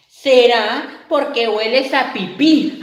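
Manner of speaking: voz de niña descarada; princesa insolente. Acted. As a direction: princesa que se burla. Princesa insulta al monstruo. (niña burlona y descarada)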